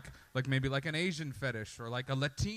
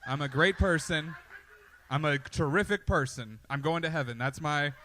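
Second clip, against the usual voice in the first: smug self-praise. Retold or imitated. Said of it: "You're like".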